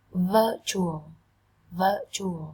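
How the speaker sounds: "virtual" stressed on vir-; stress first syllable. Shown as a demonstration. Teacher showing first-syllable stress to students. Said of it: "Trọng âm dần tiết đầu tiên".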